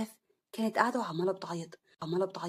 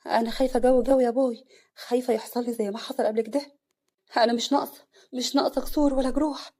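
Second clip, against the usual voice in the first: anxious, higher; nervous; 4 semitones higher, 5 dB louder than usual. Acted. Bride telling father her fear, nervous. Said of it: "عفاف بتوتر".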